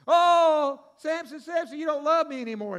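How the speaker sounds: high whiny pleading wife, pushed up. Acted. Wife nagging Samson to tell the riddle, high whiny plea. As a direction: wheedle him like a nagging wife.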